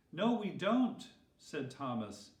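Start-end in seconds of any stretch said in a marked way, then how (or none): 0.1-1.1 eager objection. Acted. Thomas objects to Jesus.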